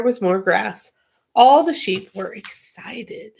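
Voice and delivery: put-on reading a children's book aloud; story narration. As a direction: read it like a bedtime story.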